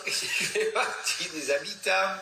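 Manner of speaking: laughing. Real, not acted. Laughing while speaking.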